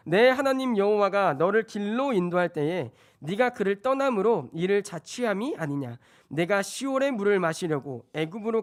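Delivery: emphatic, measured scripture reading. Acted. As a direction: read the verse out formally to the congregation. Reads scripture to congregation. (힘 있게 성경 봉독)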